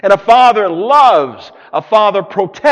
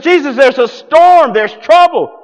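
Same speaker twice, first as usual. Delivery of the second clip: raised, louder panicky plea; disturbed disciples; 6 semitones higher, 4 dB louder than usual. Retold or imitated. Disciples waking Jesus in the storm, raised panicky plea. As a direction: cry out to a sleeping master. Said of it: "They were disturbed".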